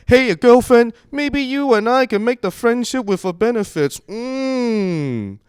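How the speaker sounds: high, loud, mock thick Asian accent; hammed-up Asian accent chat-up. Guy hitting on a girl, hammed-up thick Asian accent. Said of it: "a guy with a thick Asian accent".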